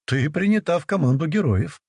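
grandiose, theatrical proclamation; hammy stage actor. Acted. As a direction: declaim it like a hammy hero. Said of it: "пафосно воскликнула я".

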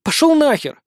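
bitter snarled curse; hissed through teeth. Acted. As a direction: spit it through clenched teeth. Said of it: "процедила Ванесса".

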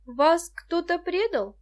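slow, worried question; gently asking with concern. A narrator's reading. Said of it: "озабоченно осведомилась Муся".

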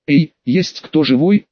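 slow, drawn-out call into the room. Acted. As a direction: call out slowly to an empty room. Constables calling out on entering. (протяжно окликает)

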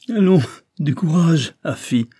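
mock her cheerily at high pitch; acted merriment without a real laugh; hearty mocking laughter. A narrator's reading. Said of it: "en riant à gorge déployée".

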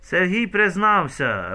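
high, loud slow cry; shout. A narrator's reading. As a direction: yell it out as proof. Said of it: "Раїса кричить".

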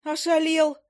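high, startled shriek; shrill squeal. Acted. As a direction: squeal it out in outrage. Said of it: "Я взвизгнула так".

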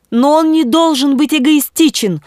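high-pitched bishop's protest; impassioned exclamation. A narrator's reading. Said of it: "воскликнул епископ". (пылкое восклицание)

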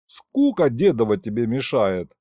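ordinary delivery, nothing marked

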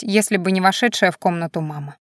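ordinary delivery, nothing marked

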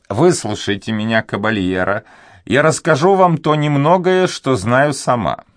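put-on a fretful old servant afraid to speak; timid old duenna. A narrator's reading. Old duenna hesitating before the young nobleman, high and anxious.

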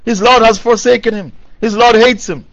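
lightly taunting imitation of scoffers; mocking jeer. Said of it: "the kuffar were laughing at him".

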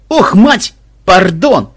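loud, high embarrassed apology; flustered. A narrator's reading. Махмуд hastily releasing madam, embarrassed. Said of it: "смутился Махмуд".

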